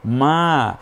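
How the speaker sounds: মা with a long, held আ; stretched vowel. Shown as a demonstration. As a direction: draw out the vowel of মা. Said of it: "তিন আলিফ পর্যন্ত টানার option".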